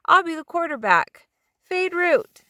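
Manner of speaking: put-on high, loud kid calling the play; bossy kid voice claiming quarterback; eager little boy. A narrator's reading.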